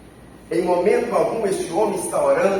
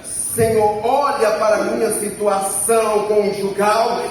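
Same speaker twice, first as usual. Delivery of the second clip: mildly raised preacher's plea; imitated cry to heaven. Someone pleads with God about their marriage, mildly raised cry. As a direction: lift the voice in a pretend appeal. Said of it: "olhe para os céus e grita".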